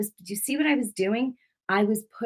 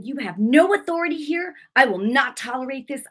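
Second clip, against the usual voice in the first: raised-pitch firm declaration; retold defiant rebuke; 5 semitones higher than usual. Woman refusing the devil any authority, defiant rebuke. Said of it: "I got mad".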